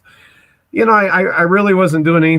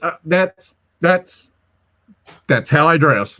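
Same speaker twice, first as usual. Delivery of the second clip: stuttering; slower than usual. Retold or imitated. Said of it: "with the stuttering".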